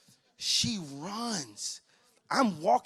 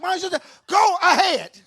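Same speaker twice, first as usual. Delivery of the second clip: sulky brother; 13 dB louder than usual. Retold or imitated. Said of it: "He like".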